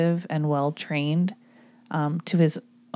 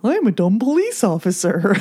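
Barney Fife; 2 semitones higher, 4 dB louder than usual. Retold or imitated. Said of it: "give me your best Barney Fife".

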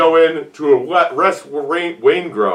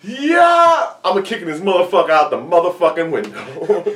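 mock tough cop. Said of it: "Vincent Hanna goes".

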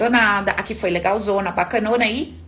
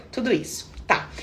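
ordinary talk

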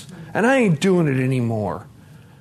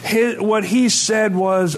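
laughing while talking; 7 semitones higher than usual. Real, not acted. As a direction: laugh through it, caught off guard. Laughing while telling emotional story.

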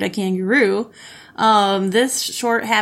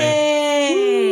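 cheering; 6 semitones higher than usual. Real, not acted. Celebrating the new studio.

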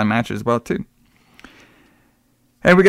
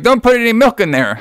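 hammed-up Hulk Hogan; 10 semitones higher than usual.

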